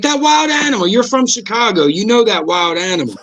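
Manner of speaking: imitated nagging, starts high then settles; insistent prodding. Comedian needling his co-host about Chicago, mock insistent. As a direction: prod him in a high, insistent retold voice.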